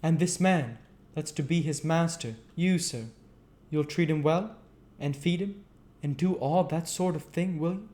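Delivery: put-on high, loud doddering old gentleman; old magistrate. A narrator's reading. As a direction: ask it mildly, half asleep.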